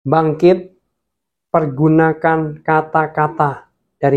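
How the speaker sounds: a preacher's rallying call, pressing harder toward the end; rousing preaching. Acted. Preacher urging his listeners to rise, forceful sermon call. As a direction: stir the church to rise up.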